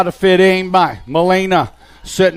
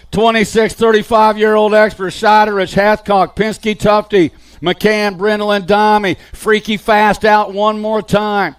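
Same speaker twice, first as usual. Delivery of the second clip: brisk race call, steady and driving; live play-by-play; 3 semitones higher than usual. Acted. Announcer calling the BMX race to the crowd, live play-by-play. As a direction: call the riders through every corner.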